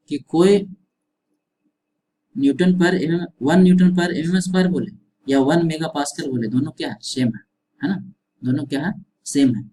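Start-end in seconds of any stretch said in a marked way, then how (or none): 0.1-6.5 louder, pressing the key point home; raised, insistent explanation; emphatic teacher voice. Shown as a demonstration. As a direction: drive the conclusion home to the class. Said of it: "बहुत important conclusion निकल रहा है".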